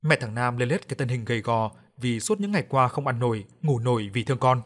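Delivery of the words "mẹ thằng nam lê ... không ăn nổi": plain reading voice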